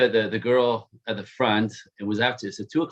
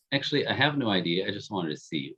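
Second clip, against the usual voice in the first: soft confession; 4 semitones lower, 7 dB quieter than usual. Retold or imitated. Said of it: "and she goes".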